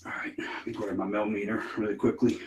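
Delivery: soft unvoiced whisper; hushed ghost-hunter whisper. Real, not acted. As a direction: whisper so nothing hears you. Quiet investigation in haunted room.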